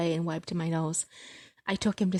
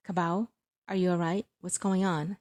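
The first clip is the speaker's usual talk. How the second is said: gentle father. Acted. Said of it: "he asked gently".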